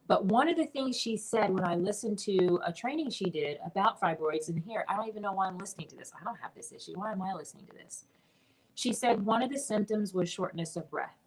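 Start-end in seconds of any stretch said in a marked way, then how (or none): 4.5-8.0 fast, much softer muttered self-questioning; inner thoughts. Retold or imitated. Recalling her own puzzled thoughts while listening, quick and hushed. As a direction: rattle off doubts to yourself under your breath.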